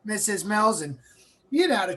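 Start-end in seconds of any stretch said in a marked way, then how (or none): 0.0-0.8 lightly imitated old Massachusetts doctor; nasally Massachusetts accent. Old lung doctor addressing a boy's mother, nasally Massachusetts accent. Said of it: "he kinda talked in a nasally Massachusetts accent".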